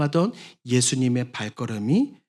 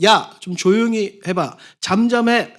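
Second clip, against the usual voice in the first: a hint of an annoyed crowd telling him to hush; lightly voiced bystanders scolding; 6 semitones higher, 4 dB louder than usual. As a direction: shush the beggar, higher and louder. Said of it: "이렇게 이야기할 때".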